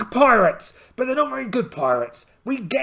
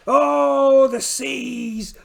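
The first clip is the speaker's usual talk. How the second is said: big theatrical cry that drops off; dramatic cry; 4 semitones higher, 5 dB louder, much slower than usual. Acted. Pirate captain bemoaning the rough seas, theatrical cry. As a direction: wail at the ocean like a stage pirate.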